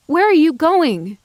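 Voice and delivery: insistent repeated question. A narrator's reading. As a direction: press him for an answer. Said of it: "more insistently this time".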